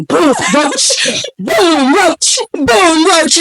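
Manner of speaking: high, punchy play-by-play of each drop; lightly hammed-up impact noises; acted-out falling roaches. Acts out roaches dropping on him.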